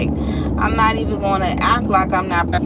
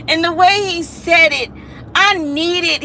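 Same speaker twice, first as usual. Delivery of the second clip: laughing; 8 semitones higher, 5 dB louder than usual. Real, not acted. Laughing while telling it.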